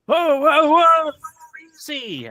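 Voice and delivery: urgent intervention. Acted. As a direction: call out to break up a fight. Breaking up an acted fight.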